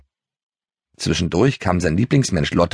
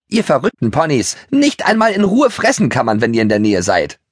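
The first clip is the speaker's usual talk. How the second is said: higher, indignant nagging mare; grumpy mare nagging at the ponies, higher; nagging scold; 5 semitones higher than usual. Acted. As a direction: scold the noisy ponies from your grazing. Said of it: "zeterte sie lauthals".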